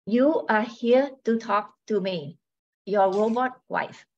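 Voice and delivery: robot voice. Acted. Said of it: "She speaks in a robotic voice".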